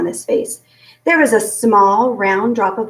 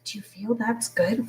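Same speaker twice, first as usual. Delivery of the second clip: whisper; 9 dB quieter than usual. A narrator's reading. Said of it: "Flora whispered to Ulysses".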